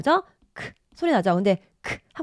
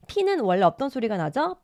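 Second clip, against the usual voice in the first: ordinary delivery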